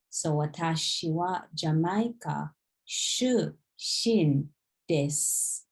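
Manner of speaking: desu said as des, the final u dropped. Shown as a demonstration. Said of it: "The U in the des, we don't pronounce it".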